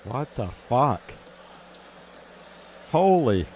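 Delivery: loud, high startled exclamation; shocked outburst. Real, not acted. Host watching a speaker collapse on stage, shocked outburst. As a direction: blurt it out in real shock.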